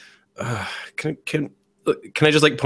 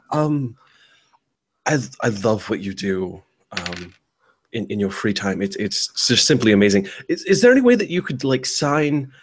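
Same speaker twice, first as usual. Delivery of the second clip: fangirling. Acted. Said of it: "when he starts fangirling".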